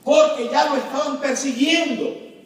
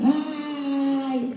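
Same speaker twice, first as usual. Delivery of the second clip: mock scream; 4 semitones higher than usual. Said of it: "Y entonces gritan".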